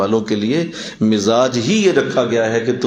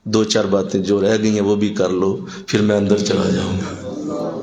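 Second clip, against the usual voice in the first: low, gentle, unhurried invitation; smiling patience; 3 semitones lower than usual. Retold or imitated. Scholar at his door turns to the heckler, kindly patient. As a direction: quote a forbearing elder with a smile. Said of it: "مسکرا کے دیکھا۔".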